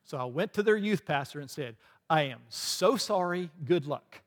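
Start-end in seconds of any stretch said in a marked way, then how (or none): 2.1-4.2 laughing mock apology. Apologizing to the youth pastor.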